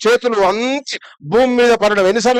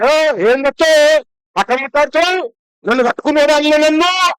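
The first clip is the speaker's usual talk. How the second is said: higher, retorting like a cheeky daughter-in-law; mock sassy daughter-in-law; 7 semitones higher than usual. Daughter-in-law snaps back at her mother-in-law, mock sassy.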